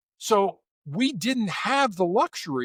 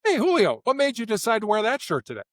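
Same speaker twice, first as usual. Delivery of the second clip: higher, friendly, open question; lifted, easygoing inquiry; non-accusatory; 7 semitones higher than usual. Shown as a demonstration. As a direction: ask with light, casual curiosity. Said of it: "it lands differently with you".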